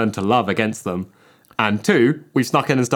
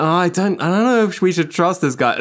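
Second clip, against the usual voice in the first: suspicious spider; 6 semitones higher than usual. Pretend. Spiders voiced in podcast bit.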